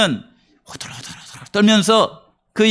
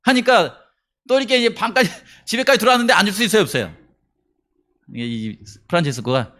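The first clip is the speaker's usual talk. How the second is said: ordinary talk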